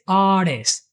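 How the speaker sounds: artist said with no T sound, ar-ist. Shown as a demonstration. Teacher showing learners: artist without the T. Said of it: "there's no T in artist".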